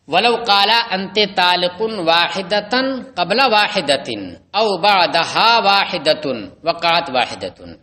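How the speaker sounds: measured formal reading of the Arabic legal text. Acted. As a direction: read the Arabic passage like a classroom recitation. Reads the Arabic source text.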